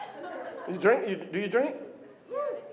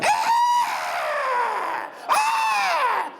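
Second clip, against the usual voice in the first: high shouted grunting alarm; mud dog cry. Retold or imitated. Ugly friend noticing her friend is missing, high shouted alarm. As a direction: snort up from the trough.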